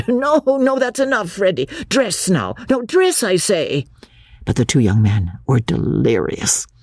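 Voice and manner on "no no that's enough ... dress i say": lightly voiced vicar calling. A narrator's reading. Vicar calling the boys back.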